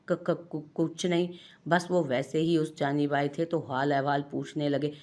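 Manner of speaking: trembling stutter, caught out; frightened wife stammering an excuse to her husband; stammering nervously. Acted. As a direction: stumble over the words, avoiding his eyes. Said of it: "लरसते हुए टूटे फूटे अल्फाज".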